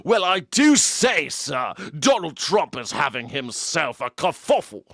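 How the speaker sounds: slow, high mock Southern American accent; a Brit hamming up a Southern drawl; Brit doing Southern drawl. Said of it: "I hear some Brit going".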